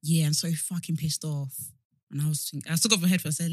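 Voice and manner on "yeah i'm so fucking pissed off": slow Essex-accented grumble, lightly put on; a touch of East London geezer, drawn out. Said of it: "East London, Essex".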